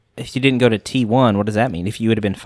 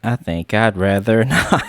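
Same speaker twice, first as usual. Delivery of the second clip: teasing laugh; slower than usual. Acted. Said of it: "I'm joking".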